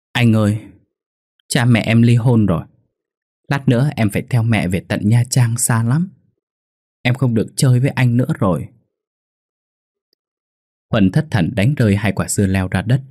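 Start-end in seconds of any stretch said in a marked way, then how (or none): 0.1-8.7 sobbing reply. A narrator's reading. Boy telling his friend his parents divorced, sobbing. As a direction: break down as you tell him. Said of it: "nức nở đáp".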